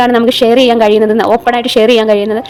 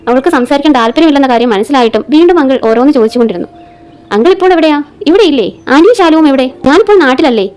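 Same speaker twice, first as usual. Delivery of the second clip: measured audio-story reading with lightly voiced dialogue; story narration. A narrator's reading. Reads an episodic story aloud. (കഥ വായിച്ചു പറയുന്ന ശൈലി)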